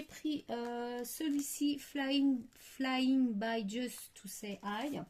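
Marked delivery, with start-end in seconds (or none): 1.8-5.0 English read slowly with a French accent; careful, drawn-out English with French vowels. Real, not acted. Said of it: "mon accent anglais".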